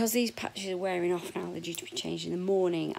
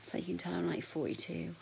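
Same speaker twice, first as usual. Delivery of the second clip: whispered aside; 6 dB quieter than usual. Real, not acted. Whispered confession of age.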